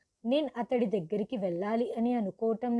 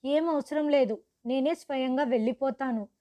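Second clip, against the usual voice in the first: harsh refusal; 3 semitones higher, 3 dB louder than usual. Acted. Bride harshly refusing Rahul's offer of a lift home. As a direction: shut him down firmly. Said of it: "నేను కఠినంగా ఇలా చెప్పాను".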